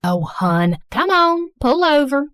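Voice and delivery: put-on thick Southern mom accent; gushing Southern accent, apologetic and sweet. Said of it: "speaking in a thick Southern accent".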